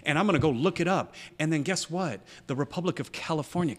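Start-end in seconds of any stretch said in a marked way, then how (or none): 0.0-1.2 mock irritated listener. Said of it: "feel like".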